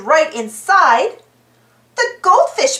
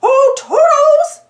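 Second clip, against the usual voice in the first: high, slow, loud sing-song call; 12 semitones higher, 6 dB louder, slower than usual. A narrator's reading. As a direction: call out across the room, drawn out. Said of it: "yelled Mickey".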